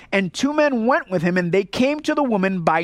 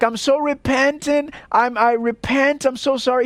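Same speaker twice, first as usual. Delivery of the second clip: mock remorse; 4 semitones higher than usual. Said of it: "and he's like".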